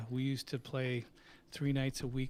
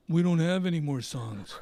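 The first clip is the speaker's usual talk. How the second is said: loud, put-on voice, a touch higher; exasperated guitarist; 4 semitones higher, 9 dB louder than usual. Guitarist telling the manager no songs are left, loud and exasperated. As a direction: protest that the tank is empty.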